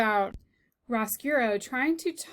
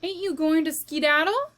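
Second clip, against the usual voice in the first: curious question; 6 semitones higher, 6 dB louder than usual. Acted. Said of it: "she said".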